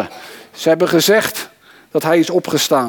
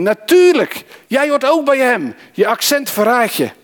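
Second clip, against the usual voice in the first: pitched-up, insistent accusing crowd; acted accusation; 8 semitones higher than usual. Bystanders confront Peter by the fire, acted accusation. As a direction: pounce on the first word, voice high.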